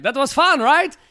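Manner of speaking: high, loud, eager imitation; mock-cheery instructor. Instructor to shaken student after landing, mock-cheery.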